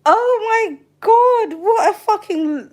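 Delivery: slow, high laughing gasp. Real, not acted. Streamer reading comments, slow laughing disbelief. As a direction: drag it out through laughter.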